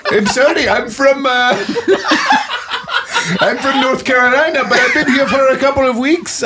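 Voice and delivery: laughing through words. Acted. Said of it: "I caught a real bad accent".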